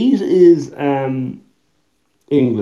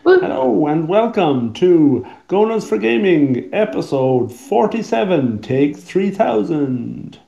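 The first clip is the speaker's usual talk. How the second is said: show host intro; 3 semitones higher, slower than usual. Pretend. Mock show intro, slow.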